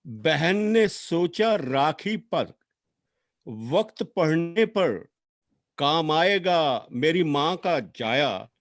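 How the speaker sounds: measured lament, lines rising and then falling away; poem recitation. Acted. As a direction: recite a sister's farewell with long pauses between phrases.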